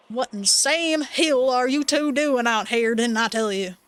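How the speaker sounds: lightly voiced old farmer, slow and scolding; silly Duke voice. Old Duke scolding the kids on the trail, lightly put-on silly voice. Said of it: "I'm making this silly voice".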